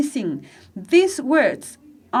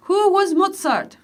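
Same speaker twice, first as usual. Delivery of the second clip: slow, with "Who" raised and leaned on; stress on WHO; 6 semitones higher, slower than usual. Shown as a demonstration. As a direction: hit the word "Who" in "Who was Mozart?". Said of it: "poner énfasis en estas preguntas". (énfasis en "Who", despacio)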